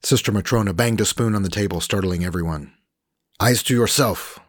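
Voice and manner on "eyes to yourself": slow, higher, louder Slavic nun bellow; Slavic accent bellow. A narrator's reading. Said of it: "bellowed in her Slavic accent".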